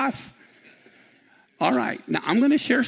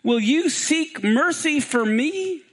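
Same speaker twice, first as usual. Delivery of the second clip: crying out; 5 semitones higher, much slower than usual. Acted. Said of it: "he cried out".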